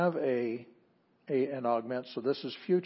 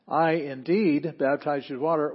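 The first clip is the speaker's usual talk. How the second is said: I indeed louder, with weight up front; emphatic "I indeed"; 3 semitones higher, 6 dB louder than usual. Shown as a demonstration. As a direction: press on I indeed. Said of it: "would also show the emphasis".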